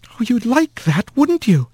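mock the couple with a sneer; sour old aunt. A narrator's reading. Sour aunt Meline voiced.

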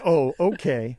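laughing through the quote. Retold or imitated. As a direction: chuckle while saying it. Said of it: "And they look at me and say".

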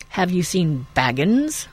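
a slow, lightly strange rider's question; queer voice. Acted. Black rider questioning the farmer, slow and faintly eerie. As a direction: ask it oddly, drawing it out a little. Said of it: "he asked in a queer voice".

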